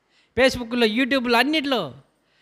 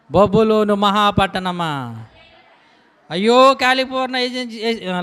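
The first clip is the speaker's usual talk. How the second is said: raised, booming scripture reading; preaching at full force; slower than usual. Acted. Preacher to congregation reading judgement, booming preaching. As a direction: proclaim the doom of the city.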